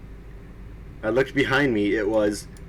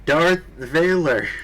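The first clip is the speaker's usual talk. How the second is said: higher, louder, slow hammed-up evil rasp; evil raspy villain; 6 semitones higher, 5 dB louder, slower than usual. A narrator's reading. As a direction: announce the name like a cartoon villain. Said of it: "said evilly in his raspy voice".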